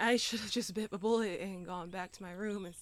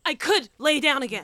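defiant yell; 6 semitones higher, 14 dB louder than usual. Acted. Defiant hungover retort.

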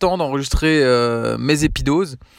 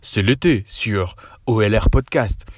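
Cédric's radio voice; 3 semitones lower, slower than usual. Retold or imitated. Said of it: "J'adore quand il dit".

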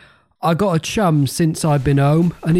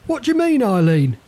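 playful rhyme; 7 semitones higher than usual. Acted. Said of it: "Did you hear that? It rhymed".

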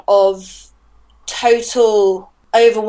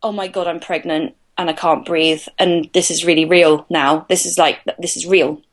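lower, subdued dread in recalled self-talk; retold shock; 4 semitones lower than usual. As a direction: let it sink in, understated and low. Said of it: "And then the other hand".

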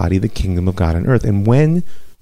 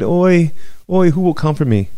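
mournful wail; 8 semitones higher than usual. A narrator's reading. Grieving woman Zion lamenting to Jeremiah, high wail. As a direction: wail it like a bereaved mother on a mountaintop. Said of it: "And she cried".

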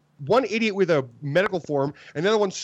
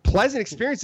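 higher, indignant question; incredulous echo; 5 semitones higher than usual. Retold or imitated. Companion answering doctor's apology, incredulous. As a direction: throw the phrase back in disbelief. Doctor's words thrown back.

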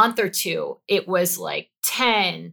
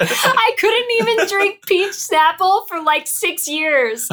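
stifled giggles; 12 semitones higher, 6 dB louder, slower than usual. Real, not acted. Laughing about peach schnapps.

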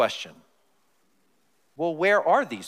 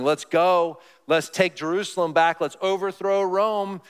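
mild mock rally cry; 4 semitones higher than usual. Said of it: "a crowd around you shouting".

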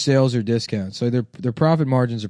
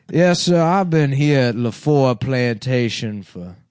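put-on old Southern character. Playing old plantation character.

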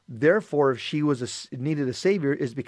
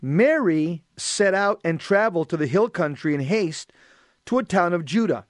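measured, projected scripture reading; solemn read-aloud with pauses between phrases; gospel reading; 3 dB louder than usual. Acted. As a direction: proclaim the reading to a congregation.

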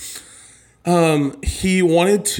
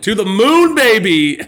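crypto bro; 6 semitones higher, 5 dB louder than usual. Pretend. Hyping stock meme.

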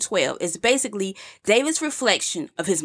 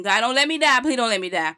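imitated pleading; 3 semitones higher than usual. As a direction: lightly voice a man begging God. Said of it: "here's David pleading with God".

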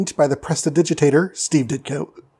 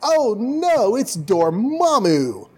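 high, dismayed "oh no"; hammed-up horrified realization; mock alarm; 8 semitones higher, slower than usual. Doctor Strange discovers he was tricked by Dormammu, mock alarm. Acted shock at the villain's trap.

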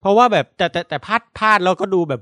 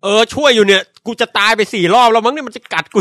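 exasperated, higher and louder complaint; Finn; 5 semitones higher, 5 dB louder than usual. Acted. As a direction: protest loudly in mock panic. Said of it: "ฟินบอก". (โวยวายล้อเล่น เสียงสูงและดัง)

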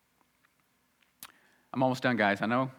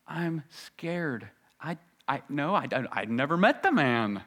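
scared stammer; 2 semitones higher than usual. Acted. Peter denying, scared.

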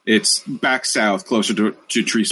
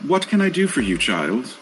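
lightly voiced goddess; 4 semitones higher than usual. GM voices NPC Aya.

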